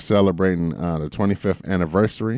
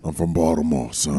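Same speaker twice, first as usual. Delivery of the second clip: put-on Baltimore accent; 5 semitones lower than usual. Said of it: "y'all accent a little".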